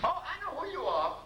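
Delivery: 3 play the wife, sure of herself; 4 lightly voiced wife, knowing tone; 1 wife's voice.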